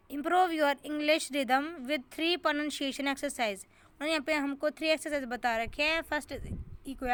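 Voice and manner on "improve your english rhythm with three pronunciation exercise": slow heading read. Shown as a demonstration. Teacher rereads the exercise heading.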